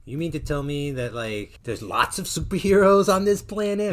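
light attempt at a movie hero voice; a hint of a gruff antihero; Eddie Brock voice. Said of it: "trying to do my Eddie Brock impression".

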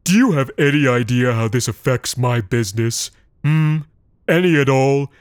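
indignant berating. Acted. Big man berates them about his shareholders. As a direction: lay the guilt on thick.

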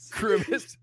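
high, shouted name call; Grimace announcement. Retold or imitated. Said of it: "announcing who you are".

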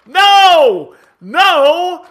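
slow, furious rant at the coaches; furious shout. Real, not acted. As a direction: blow up and roar at them.

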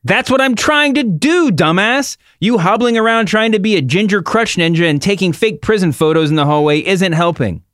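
high-pitched mock trash talk; hammed-up high voice firing back an insult; Ronda Rousey. Host as Ronda insulting Becky back, high theatrical retort. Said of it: "I'll do Ronda Rousey".

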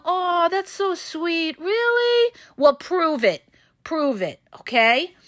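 sugary fake sweetness, pitch leaping up on Really, then a flat dare; mock sweet, then challenging. To a love-bombing narcissist, mock sweet then daring. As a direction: coo it like you're charmed, then call the bluff.

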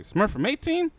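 very high, loud rising demand; confrontational question. Retold or imitated. Stranger questions newcomer about gang link, confrontational. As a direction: imitate a suspicious stranger's alarmed challenge. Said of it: "just the way he said it".

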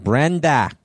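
mock Bostonian "Brenda"; Boston accent. Shown as a demonstration. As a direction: open Boston ending on Brenda. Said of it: "And then Boston's like".

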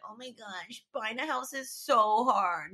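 drawn-out self-mocking whine; exaggerated poor-me complaint; mock moping. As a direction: mope it slowly, making fun of yourself. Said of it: "hear me moping and being like".

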